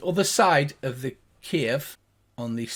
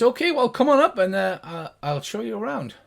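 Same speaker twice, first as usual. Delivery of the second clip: higher-pitched friendly gnome guide; gnomish voice; 7 semitones higher, 4 dB louder than usual. Acted. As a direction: speak up high as a helpful gnome. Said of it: "the two high-pitched gnomish voices".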